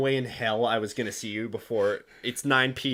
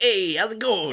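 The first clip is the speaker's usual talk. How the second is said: higher, hammed-up Brooklyn Italian accent; bad Brooklyn Italian accent; 7 semitones higher, 4 dB louder than usual. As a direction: ham up a fake Brooklyn Italian guy. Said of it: "This is like a bad Brooklyn Italian accent".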